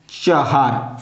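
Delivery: चहार said with a clear h, cha-haar, not चार; Persian chahar. Shown as a demonstration. Teacher shows students the Persian form, clearly pronounced. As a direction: spell out चहार with the middle h sounded. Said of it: "फारसी में इसको चार को चहार कहते हैं".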